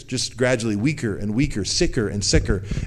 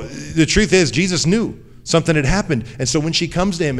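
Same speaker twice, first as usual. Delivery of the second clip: fervent preaching; 5 semitones higher, 5 dB louder than usual. Real, not acted. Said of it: "preacher's rising emphasis".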